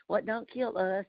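put-on slow, drawn-out "What don't kill us" in a Southern country accent; real country Southern. Caller quoting a Southern saying in country accent. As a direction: lean into the Southern country twang, slowly. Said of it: "that's how they say it real country".

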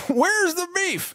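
put-on high squeaky old lady, drawn out; slow old lady voice. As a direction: stretch it slowly like the old lady in the ad. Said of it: "that old lady's like".

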